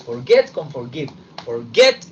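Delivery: "forget" punched loud with a rise; stress on forget. Shown as a demonstration. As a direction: hit "forget" hard. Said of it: "Ojo, que uno siempre confunde". ("forget" acentuado y fuerte)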